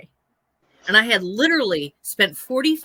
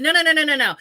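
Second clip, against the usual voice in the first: emphatic refusal; 7 semitones higher, 5 dB louder, faster than usual. Retold or imitated. Refusing the huffy neighbor.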